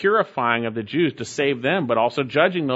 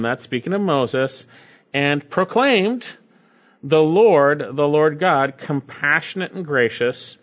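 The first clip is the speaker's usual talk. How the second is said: scripture reading. Acted. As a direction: read it like holy text, unhurried. Reads scripture aloud.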